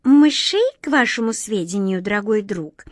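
casually boastful, high and bright; offhand. Acted. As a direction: toss it off as if in passing. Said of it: "как бы, между прочим".

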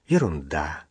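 low, soft, firm dismissal; quiet but firm. A narrator's reading. Ailing old man waves away a doctor, quiet but firm. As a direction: brush it off quietly, dropping low. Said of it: "тихо, но твёрдо проговорил старик".

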